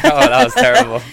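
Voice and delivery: laughing in disgust. Real, not acted. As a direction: laugh it out, grossed out. Reacting to a bad shot.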